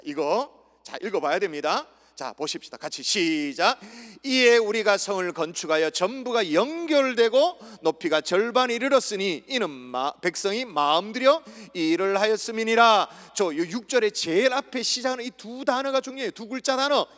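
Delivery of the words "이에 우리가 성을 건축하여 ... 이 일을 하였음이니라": strong, measured recitation; scripture reading. Shown as a demonstration. Preacher leads the congregation in verse six, declamatory reading. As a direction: read out so all can join.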